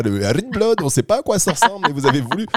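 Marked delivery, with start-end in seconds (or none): 0.0-0.8 teasing imitation of her Danish rugbrød; playful fake-Danish rugbrød; mock Danish accent. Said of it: "dans votre tête, c'est comme ça l'accent".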